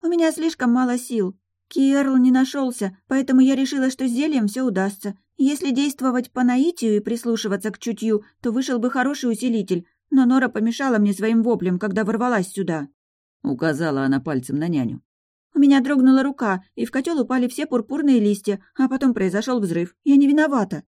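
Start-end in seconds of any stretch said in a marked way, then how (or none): 0.0-12.9 put-on high childlike voice; little girl. A narrator's reading. Daughter explains. 15.5-20.8 high, a little louder protest; defensive woman. A narrator's reading. Nanny defends herself.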